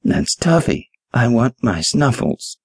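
very high, squeaking, breaking voice; an old lady whining for her cat; squeaky cracking voice. A narrator's reading. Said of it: "her voice cracking and squeaking".

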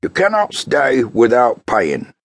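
slow, curt refusal; blunt keeper. Acted. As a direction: refuse her, word by word. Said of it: "he told her bluntly".

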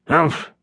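a mildly voiced gruff grunt; growled humph. A narrator's reading. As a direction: grunt it out in disgust, lightly. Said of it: "Leon growled".

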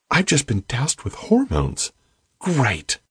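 sarcastic in a new high voice; high soft voice. Acted. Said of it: "It was so high, so soft".

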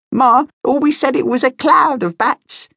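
squeaky little bat. A narrator's reading. Young bat corrects his uncle with a high squeak. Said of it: "squeaked a fourth voice".

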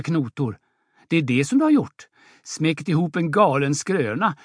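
mildly bitter scolding mother; a touch of bitter reproach; embittered. Acted. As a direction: lay bare his lie with bitterness. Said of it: "Åse, förbittrad".

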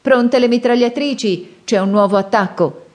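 high, ringing battle command, slowed at first; thundering shout. A narrator's reading. Sandokan orders the elephant riders, thundering shout. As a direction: call the men to arms across the herd. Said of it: "gridò con voce tonante".

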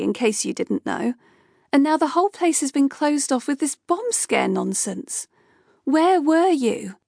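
Kay pushing back at Rupert, insistent and angry; heated argument. Acted. Kay continues arguing with Rupert.

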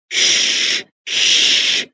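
hushed unvoiced shh; shushing. A narrator's reading. Dolls hush each other so Raggedy can think, whispered. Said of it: "they said to each other".

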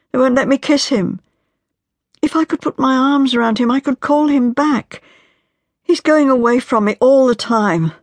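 a wife breaking down as she pleads; anguished young wife. Acted. Marian's despairing speech continues.

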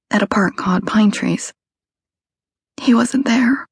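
hushed and scared; breathy, frightened voice. A narrator's reading. Kelly voiced, whispery.

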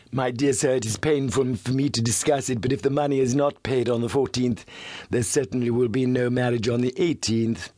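a hint of a sly blackmailer; lightly voiced silky villain; smooth suave voice. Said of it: "His voice was as smooth and suave".

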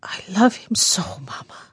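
soft, broken-hearted confession; defeated, woeful. A narrator's reading. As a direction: say it quietly, in despair. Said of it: "a voice full of defeat and woe".

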